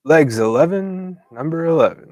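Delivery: lightly voiced bingo caller call. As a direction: sing out the number like a bingo hall caller. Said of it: "Jer has a calling, as a bingo caller".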